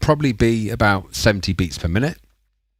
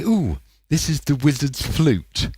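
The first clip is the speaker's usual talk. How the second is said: suggestive ooh; 5 semitones higher than usual. Pretend. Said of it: "If I say".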